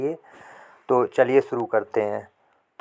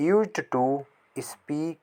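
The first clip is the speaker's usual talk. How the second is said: slow model sentence; 2 semitones higher, 5 dB quieter, much slower than usual. Shown as a demonstration. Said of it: "उसे झूठ बोलने की आदत है".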